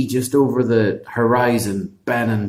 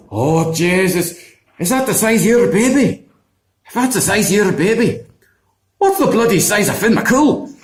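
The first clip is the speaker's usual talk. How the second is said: higher, louder astonished giant; shocked giant; 8 semitones higher, 3 dB louder than usual. Acted. Giant sees the giant baby and panics, astonished exclaim. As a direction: gasp in disbelief at the huge baby.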